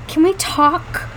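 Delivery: slow, gentle request; sweet. A narrator's reading. Tearful girl at his door at night, asking sweetly. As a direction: ask it sweetly, taking your time. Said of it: "in probably the most sweetest voice".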